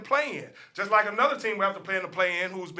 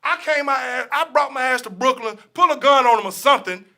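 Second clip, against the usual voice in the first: mock gangster threat; 3 semitones higher, 5 dB louder than usual. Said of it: "be like".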